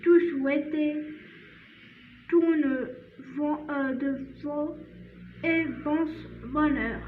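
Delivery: slow French read-aloud, stopping and restarting; halting poem reading. Shown as a demonstration. Teacher reads the poem one last time, slow halting recitation. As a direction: read carefully phrase by phrase, with hesitations.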